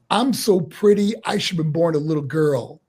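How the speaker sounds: a hint of vain showman; rehearsed promo line. Rookie wrestler trying his mentor's vain promo line. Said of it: "he wanted me to say".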